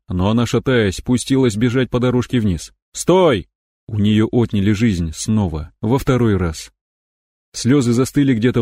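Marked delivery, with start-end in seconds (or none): 2.9-3.5 shouting. Acted. Shouting after her.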